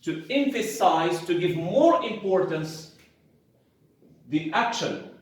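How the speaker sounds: the rule said word by word with long pauses; slow dictation while writing on the board; dictating so students can copy; dictation pace. Shown as a demonstration. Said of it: "write a very short summary here".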